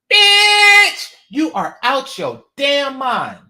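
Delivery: sudden high, loud yell; explosive angry shout; outraged shout. Real, not acted. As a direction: blurt it out in disbelief. Angry outburst at women's advice.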